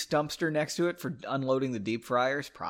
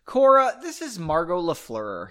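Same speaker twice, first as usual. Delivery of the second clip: quick introduction; 4 semitones higher, 6 dB louder than usual. A narrator's reading. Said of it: "he said quickly".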